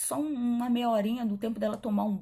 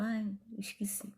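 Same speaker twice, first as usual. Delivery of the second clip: whispered mock excuse; 7 dB quieter than usual. Imitating João forgetting.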